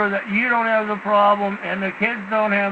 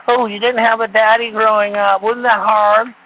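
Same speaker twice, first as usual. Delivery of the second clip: sneering imitation of fake pity; mock sympathy; 3 dB louder than usual. Mocking psychologists and teachers pitying the fatherless, in a sarcastic sympathetic voice. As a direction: mimic them cooing with false concern, a touch louder. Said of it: "these psychologists and these Democrats".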